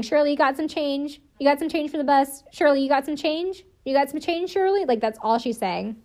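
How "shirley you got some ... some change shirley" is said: higher-pitched mock pestering; insistent repeating. Podcaster imitating a bride begging her sister for change, mock pestering. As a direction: imitate someone nagging on a loop. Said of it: "Janine is just repeating".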